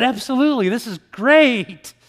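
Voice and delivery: bursting with eagerness at the offer; thrilled yes. Retold or imitated.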